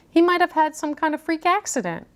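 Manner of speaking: high fussy professor. A narrator's reading. Professor Plum's voice.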